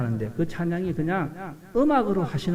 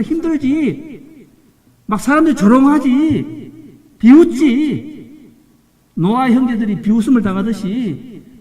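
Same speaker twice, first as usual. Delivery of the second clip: high, loud, drawn-out cries; impassioned preaching; 7 semitones higher, 6 dB louder, slower than usual. Acted. Preacher voicing God to suffering believers, rising fervent shouts. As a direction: plead with the listeners, voice soaring.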